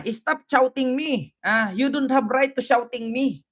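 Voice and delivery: lightly imitated indignant woman; mock protester. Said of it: "Sabi niya". (bahagyang panggagaya sa nagrereklamong babae)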